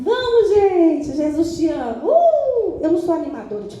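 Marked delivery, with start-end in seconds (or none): 0.0-2.0 high, bright-pitched cheerleader call; chirpy stage host. Pretend. Mock stage animator cheering the church crowd. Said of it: "Talvez você achou que eu ia falar assim". 2.0-2.8 mock cheer whoop. Mock cheer after the peppy line.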